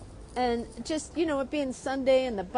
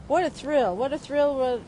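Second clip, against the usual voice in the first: thrilled; 3 semitones higher, 4 dB louder than usual. Real, not acted. Excited about drawing.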